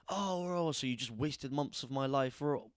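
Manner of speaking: high-pitched imitation of complaint; mock losing their head. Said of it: "they lose their head at me".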